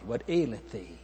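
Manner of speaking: soft, gently questioning; tender. Acted. The Lord calls to Hagar in her distress, tenderly. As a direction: ask it tenderly, with a softened voice. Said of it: "How tender".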